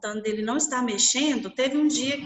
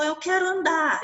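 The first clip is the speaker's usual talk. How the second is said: higher, urgent plea to walk; eager boy; 6 semitones higher than usual. Retold or imitated. Paralysed boy begs his mother to walk, high and eager. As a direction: push it up, he can't wait.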